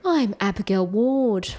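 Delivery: slow Australian anchor sign-on; Australian newsreader introducing herself; Australian newscaster. Acted. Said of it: "Australian newscaster voices".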